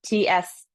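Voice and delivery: a quick tss; short hiss. Shown as a demonstration. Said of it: "metal element is".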